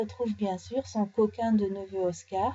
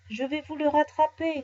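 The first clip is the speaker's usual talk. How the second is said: shouted; 5 semitones higher than usual. Acted. Nounours calls to the merchant he will catch it, shouting. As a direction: call out eagerly to the merchant. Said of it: "crie Nounours".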